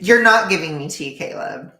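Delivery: high, loud protest; loud complaint. Real, not acted. Streamer complaining she gets no gossip, loud protest. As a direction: protest loudly at the viewer. Mock complaint at viewer Caleb.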